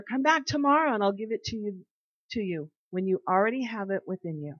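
steady, measured Bible reading; solemn reading of scripture. Acted. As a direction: read the verses like a devotional. Reads Proverbs aloud to listeners.

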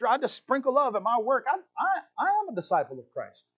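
high, gushing, naive voice; mock sappy believer. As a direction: lampoon a sugary do-gooder. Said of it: "you might say".

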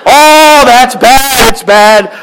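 a hammed-up friend groaning; sympathetic friend. Friend reacting to bad news, hammed-up high dismay. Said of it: "friend voice in the joke".

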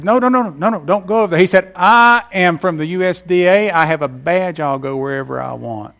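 bossy inspector insisting; lightly voiced pushy official; officious agent. Agent stops the farmer.

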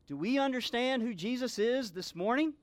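ordinary delivery

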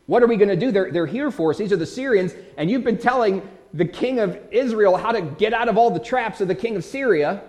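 a servant panicking at the sight of an army, mild alarm; panicked servant. Retold or imitated. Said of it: "And he panics".

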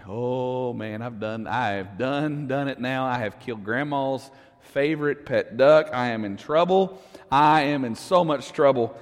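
put-on a scared kid muttering to himself after the accident; panicked boy. Boy to himself after killing the duck, low hushed panic. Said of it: "so he begins to panic".

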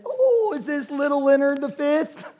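a hint of a doting great-grandma; sweet old great-grandma. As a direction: imitate great-grandma's pleased surprise. Great-grandma voiced in story.

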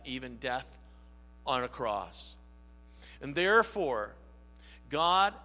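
measured, reverent reading of the passage; solemn scripture reading. Acted. Preacher reading Paul's letter to the church, reverent. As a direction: read it like holy writ before the church. Reads Philippians scripture aloud.

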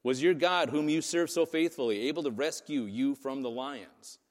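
calls out loud in anguish, desperate; a king shouting down into the pit, fearing the worst; hopeless anguished cry down a pit. Retold or imitated. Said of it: "Look at how he talks".

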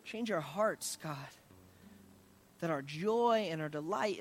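heartfelt pastoral prayer, swelling and easing; earnest prayer. Real, not acted. Pastor praying to God for the congregation, earnest prayer. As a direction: plead with God, building in intensity then settling.

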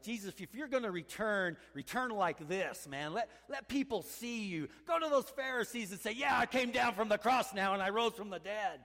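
a crowd demanding a spectacular return; pleading demand. Retold or imitated. Preacher voicing the crowd, rising and insistent. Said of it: "this is the way the world likes, you know, like".

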